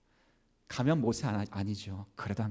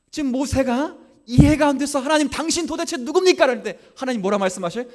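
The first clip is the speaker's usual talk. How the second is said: high, loud sung-out preaching over music; fiery preaching; 13 semitones higher, 13 dB louder than usual. Acted. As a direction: preach it out, building fervor. Preaching at full force.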